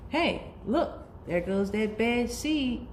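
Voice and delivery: lightly voiced nosy onlooker; passerby voice.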